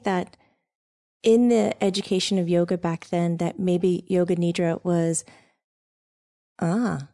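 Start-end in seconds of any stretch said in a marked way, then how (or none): 4.1-4.8 "Nidra" said with a long ee, NEE-dra; mispronounced Nidra. Real, not acted. Host slips on the term while asking about yoga history, mispronounced. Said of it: "I just mispronounced it".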